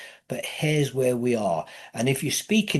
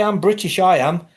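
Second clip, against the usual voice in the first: higher, smug mock Englishman; 3 semitones higher, 4 dB louder than usual. Mocking the English who insist they're British, smug higher mimicry. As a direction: puff up like a proud Brit. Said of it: "But the English".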